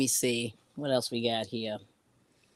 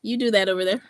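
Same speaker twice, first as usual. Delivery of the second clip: dismissive okay; 9 semitones higher, faster than usual. Retold or imitated. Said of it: "I'm just like".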